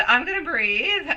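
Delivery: steadier, settling the breath; calming down. Real, not acted. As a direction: let it out calmer, regaining control.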